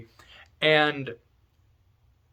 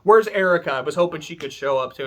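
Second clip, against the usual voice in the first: cocky greeting; 4 semitones higher than usual. Retold or imitated. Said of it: "Burn shows up and Balor's like".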